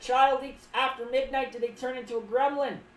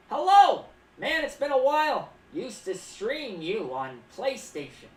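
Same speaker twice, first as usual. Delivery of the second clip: loud hello; 6 dB louder, slower than usual. Retold or imitated. Reading viewer greeting aloud.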